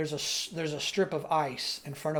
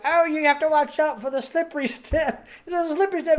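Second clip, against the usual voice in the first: higher fussing puppet voice, a touch mock; Missus Bear warning; 11 semitones higher, 6 dB louder than usual. Missus Bear warns Rolf about the slippery step, higher fussing voice. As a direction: fuss over him lightly. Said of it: "And she's like".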